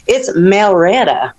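Melretta said slowly as mel-RET-ta; Southern Melretta. Retold or imitated. Teacher corrects the girl's name with a slow Southern Melretta. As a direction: drawl it out as Melretta. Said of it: "She says".

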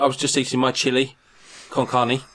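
put-on Mexican accent; Carlos, thick accent. Carlos explaining himself to the hosts, thick Mexican accent. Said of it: "for having a thick accent".

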